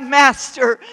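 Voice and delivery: first cry of Master, loud and falling. Acted. Disciple in the storm crying out, loud. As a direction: call out to the master. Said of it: "you've cried out".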